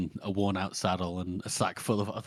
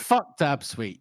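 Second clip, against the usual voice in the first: drawn-out, higher-pitched curse; indignant cursing; 4 semitones higher, 4 dB louder, much slower than usual. Real, not acted. Reader cursing a character who betrays his fellowship, indignant. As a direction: lean slowly on each word with scorn.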